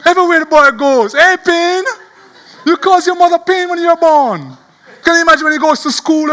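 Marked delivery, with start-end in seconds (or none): 1.1-4.6 raised, teasing call; acted-out jeer at a boy with a hated name; schoolyard taunting. Children ridiculing Pain at school, taunting. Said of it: "he's being ridiculed".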